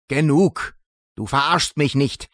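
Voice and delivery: laut hinausgeschleudert, voller Zorn; wütender Ausruf. Acted. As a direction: explodier vor Wut. Wütender Ausbruch einer Figur. (wütend aufschreien)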